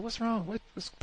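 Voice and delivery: high, startled "what's wrong"; a sudden high-pitched worried question; mock concerned. Asking the stressed guard, high and startled. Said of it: "I said".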